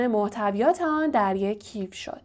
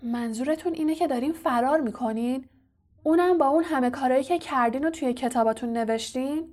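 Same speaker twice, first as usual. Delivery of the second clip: higher-pitched, disbelieving question; incredulous; 3 semitones higher than usual. Acted. Harry confronts his fleeing professor, incredulous. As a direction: ask it in mild disbelief. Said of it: "ناباورانه گفت".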